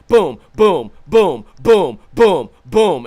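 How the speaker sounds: loud, percussive booms in pairs; imitated punch sounds. Acting out bopping the guy, punchy sound effects. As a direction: hit each boom hard like a landing blow. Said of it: "So I bopped him".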